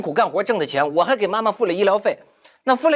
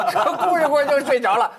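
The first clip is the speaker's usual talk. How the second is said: laughing; 9 semitones higher than usual. Real, not acted. Laughs retelling brother's complaint.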